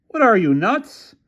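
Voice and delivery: a rich man put out by police; puzzled developer. A narrator's reading. Developer questioning police at the gate, indignant and high. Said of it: "developer scoffing at police".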